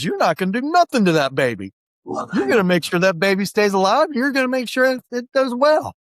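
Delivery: insistent retold orders, pitch rising as it goes; acted stern warning. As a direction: lay down the law as a character. Zara threatening, acted in retelling.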